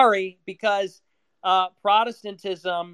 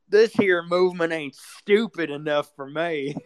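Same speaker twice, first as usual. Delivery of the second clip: mock Southern hick. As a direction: ham up a dim Southerner while cracking up. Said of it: "It needs to be more Southern and more stupid".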